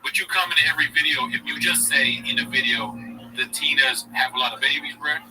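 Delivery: lightly voiced bro giving advice; Schultz impression. Mimicking a podcaster lecturing fans, lightly voiced bro. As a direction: preach code switching like a hustle guru. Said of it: "Schultz is his character".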